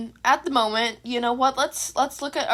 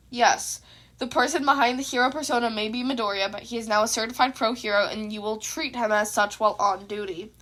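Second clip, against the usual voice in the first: calm; 4 semitones lower than usual. Acted. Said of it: "Aizawa answered calmly".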